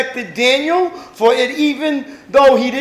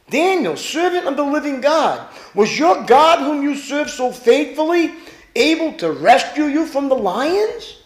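king calling out; 3 semitones higher than usual. Acted. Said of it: "Listen how he's speaking".

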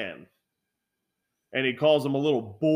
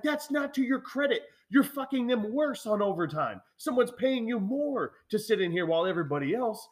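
higher-pitched argumentative rebuke; mock-argument, pitched up in indignation; retold indignant scolding; 8 semitones higher than usual. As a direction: tell off a slacking coworker, voice raised in pitch. Retold scolding of coworker on overtime.

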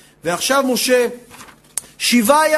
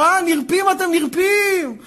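raised-pitch taunting rebuke; scornful accusation; 5 semitones higher, slower than usual. Acted. Pharaoh accusing the Israelites of idleness, scornful rebuke. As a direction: scold them for slacking, voice pitched up.

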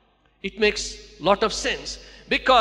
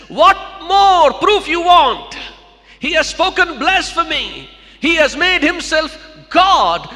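shouted, higher and louder, outraged priest; enraged high priest shouting blasphemy; furious accusation; 4 semitones higher, 5 dB louder than usual. Acted. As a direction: rail at the crowd, demanding a crucifixion. High priest condemns Jesus.

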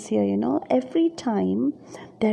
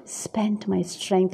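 "Spent my strength" slow, stretching the S sounds; drawn-out alliteration; much slower than usual. Shown as a demonstration. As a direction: let "strength" ooze out slowly. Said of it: "it's very soft".

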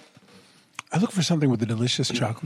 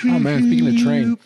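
high laughing burst; laughing loudly; 13 semitones higher, 8 dB louder than usual. Real, not acted. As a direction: laugh it out loud. Laughing outburst.

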